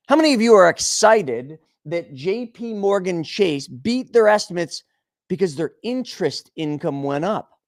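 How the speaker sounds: ordinary talk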